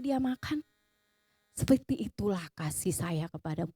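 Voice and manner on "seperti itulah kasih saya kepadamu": low, gentle divine voice; God speaking. Retold or imitated. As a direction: drop low to declare love tenderly. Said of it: "Tuhan bilang begini". (suara Tuhan, rendah dan lembut)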